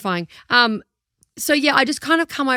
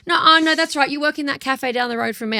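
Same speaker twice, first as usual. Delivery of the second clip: eager recognition; 3 semitones higher than usual. Retold or imitated. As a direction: click the memory into place. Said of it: "someone goes".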